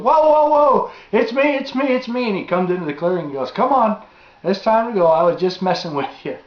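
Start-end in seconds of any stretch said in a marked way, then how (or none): 0.0-2.3 imitated high, loud panicked cry; alarmed calling out. Acting dad calling out after shot. 3.5-6.4 high, raised voice owning up to a prank; retold dad calling. Acting dad admitting the prank.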